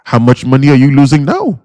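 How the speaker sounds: a light, mock Indian accent; imitating an Indian accent. A mentor answering "is it worth it", quoted in a light Indian accent. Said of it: "in his Indian voice".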